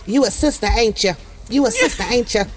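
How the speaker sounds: put-on African-American vernacular, lightly done; Black vernacular caller impression; imitated Black callers' dialect. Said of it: "that's what the black people say to me".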